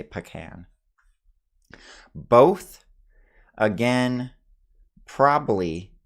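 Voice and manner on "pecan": "pecan" as puh-KAN; gut-reaction pronunciation. Shown as a demonstration. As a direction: say "pecan" with a reduced first syllable. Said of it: "gut reaction is to say".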